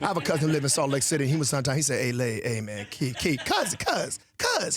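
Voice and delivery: casual Southern buttonholing; easygoing Southern-accented patter; Southern cousin accent. Acted. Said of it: "impersonating my cousins from the South".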